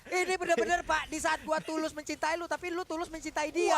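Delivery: mock lovesick complaint; dramatic joke to co-caster; joking heartbreak. Real, not acted. Caster jokes during hype. (bercanda pura-pura patah hati)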